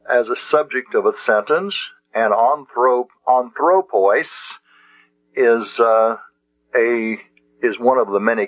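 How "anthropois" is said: anthropois drawn out slowly, final s clear; slow Greek word. Shown as a demonstration. Teacher contrasting the two forms for students. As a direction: stress the ending of anthropois. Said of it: "the word anthropoi and anthropois".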